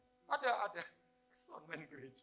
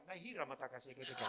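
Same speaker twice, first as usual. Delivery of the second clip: mock Indian-flavoured tongues; 5 dB louder than usual. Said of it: "saya campur bahasa India lah".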